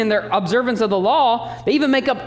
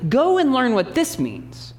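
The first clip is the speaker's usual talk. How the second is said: rebuking dig; 4 semitones higher, slower than usual. Retold or imitated. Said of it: "he uses their own line on them".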